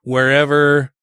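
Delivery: slow, even sample promo read; demo promo read. Shown as a demonstration. Host shows comedian how the drop goes, slow demo read. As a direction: model a station drop for the guest, slowly. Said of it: "so it'd be like".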